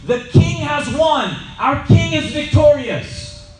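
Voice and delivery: high, loud shout of victory; soldier shouting. Retold or imitated. Soldier running down the hill shouts victory loudly. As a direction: yell it like a runner bringing news of victory. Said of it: "he's shouting at the top of his lungs".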